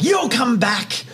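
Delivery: slow, high sing-song taunt; taunting mum. Retold or imitated. Mum calling after runaway son, slow taunting sing-song. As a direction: lilt it at him like she's sure. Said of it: "my mum's like".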